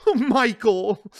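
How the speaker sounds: drawn out fondly; Kay, fond. Acted.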